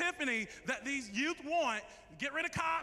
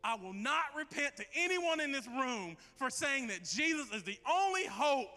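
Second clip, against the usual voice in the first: heartfelt prayer. Acted. Pastor leads closing prayer.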